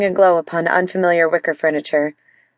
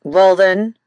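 grunted out, a touch louder; 3 dB louder than usual. Acted. Sore husband challenging his wife, grunted. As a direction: grunt it, fed up. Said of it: "Daniel grunted".

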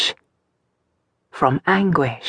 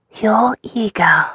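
with a sigh; 5 semitones higher, slower than usual. Acted. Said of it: "Mary acknowledged with a sigh".

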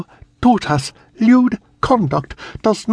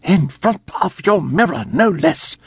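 governess shouting; 7 semitones higher than usual. A narrator's reading. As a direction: shout it at the girl, scandalized. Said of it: "Miss Plimpton shouted".

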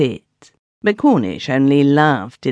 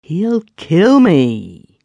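higher, louder and very slow; frightened plea; 5 semitones higher, 5 dB louder, much slower than usual. Acted. Chiddock begging the keeper, slow frightened plea. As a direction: drag it out in dread. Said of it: "he says in a queer-sounding voice".

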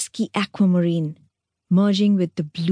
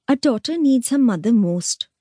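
higher, sing-song mocking echo; mocking mimicry; 5 semitones higher than usual. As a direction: parrot her words back with scorn. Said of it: "mimicked Meenakshi".

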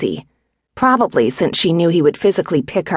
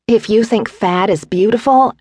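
higher, huffy comeback; touchy retort; 6 semitones higher than usual. A narrator's reading. Pregnant wife to admiring husband, huffy. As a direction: throw the compliment back at him.

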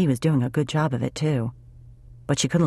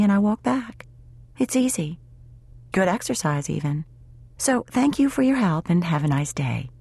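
higher-pitched, self-sufficient female character; lightly voiced independent woman, brisk; 5 semitones higher than usual. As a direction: politely brush off the offer of help.

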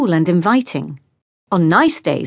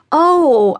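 surprised oh; 9 semitones higher, 4 dB louder than usual. Acted. Neighbour realizes Dad's separation.

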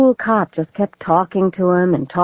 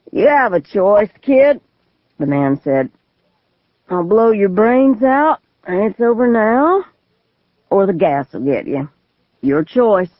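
put-on menacing drunk man; 3 semitones higher than usual. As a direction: threaten the kid, unhurried. Gunman gives ultimatum.

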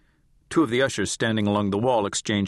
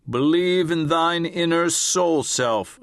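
higher, louder lofty intoning; solemn channeled spirit; 7 semitones higher, 3 dB louder, slower than usual. A narrator's reading. Channeler resuming her script, solemn lofty intoning. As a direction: proclaim like an ancient sage. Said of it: "Ariora Isu said".

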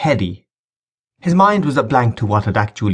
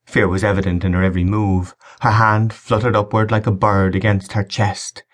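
ordinary delivery, nothing marked

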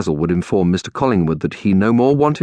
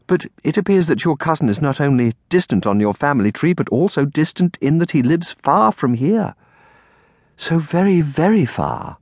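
higher, careful aunt voice; lightly voiced regretful aunt; 7 semitones higher than usual. Aunt explains cousin lives far away, regretful. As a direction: break the news as the aunt.

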